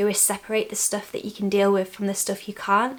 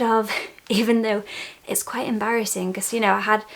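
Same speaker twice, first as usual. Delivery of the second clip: breathless from moving around; out of breath. Real, not acted. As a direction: talk while catching your breath. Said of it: "sorry, I'm just out of breath".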